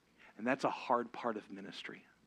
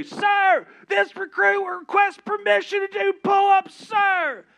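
recruit bellowing at full volume, much higher; military shout; 17 dB louder, slower than usual. Retold or imitated. Recruit shouting a request to drill instructors, full-force yell. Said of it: "I would say".

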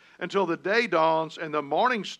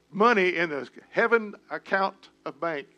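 normal talking voice

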